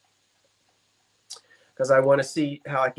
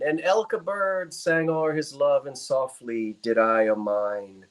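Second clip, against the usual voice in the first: poem recitation; 2 semitones lower, slower than usual. Acted. Finishing a Burns verse for the auction audience, slow, solemn recitation. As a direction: draw out the closing line of the poem.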